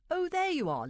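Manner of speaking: high burst of relief; relieved exclamation. A narrator's reading. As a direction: greet with sudden relief, pitch leaping up. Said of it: "said Burton in relief".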